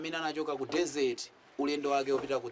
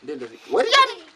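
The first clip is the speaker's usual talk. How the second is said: squeaky madman voice; 7 dB louder than usual. Acted. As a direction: pitch way up like a loony. Patient's odd surprised voice.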